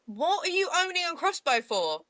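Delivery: high-pitched baffled question; incredulous. Real, not acted. Co-host questioning crossbow owners, incredulous. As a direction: pitch up in disbelief.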